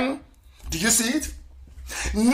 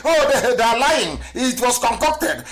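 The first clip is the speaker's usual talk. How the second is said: mock accusation; 4 semitones higher than usual. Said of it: "that's what they used to say".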